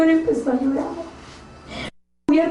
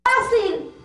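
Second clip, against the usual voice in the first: higher, crying plea; tearful plea; 4 semitones higher than usual. Retold or imitated. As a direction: ask why through tears. Crying to the Lord. (súplica entre lágrimas)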